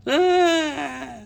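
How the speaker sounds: sudden squeaky cry; high falsetto yelp. Pretend. Figure pops in half.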